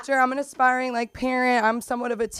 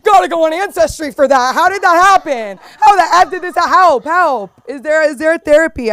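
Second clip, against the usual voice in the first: mock Valley girl despair; 6 semitones higher, 11 dB louder than usual. Mock despair over accent.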